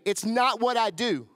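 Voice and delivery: rallying call for them to echo; call to repeat. Shown as a demonstration. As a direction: lead the congregation in a loud refrain. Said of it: "repeat after me".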